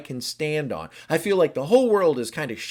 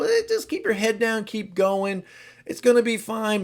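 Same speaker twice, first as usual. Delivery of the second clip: much higher, louder, carefree reassurance; breezy upbeat; 6 semitones higher, 5 dB louder than usual. Acted. Type seven insisting all is fine, high and chipper. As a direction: brush everything off with cheerful gusto.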